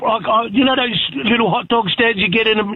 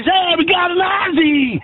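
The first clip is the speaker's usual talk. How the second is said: American vendor; 5 semitones higher than usual. Retold or imitated. Hot dog vendor greeting the Aussie caller, mock hail. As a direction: play the vendor cheering at spotting an Aussie. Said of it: "And he goes".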